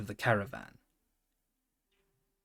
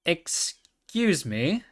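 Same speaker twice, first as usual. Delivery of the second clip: slow, polite ask, higher; 5 semitones higher, much slower than usual. Acted. Pony politely tries the next horse, slow and polite. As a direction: stretch it out, very courteous. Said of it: "as politely as before".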